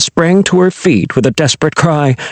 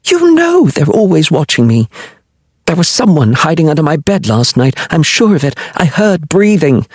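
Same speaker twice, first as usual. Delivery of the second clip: lightly voiced anxious queen, higher; a fretful young queen, pitched up; frightened queen; 4 semitones higher than usual. Queen fretting to her lover about spies, higher anxious voice.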